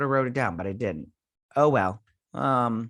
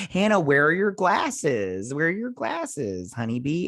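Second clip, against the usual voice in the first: higher, chirpy teasing voice, lightly voiced; teasing quote; 3 semitones higher, slower than usual. Character teasing glum poker players, mock-sweet and higher. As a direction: needle the grumpy players, sing-song and higher.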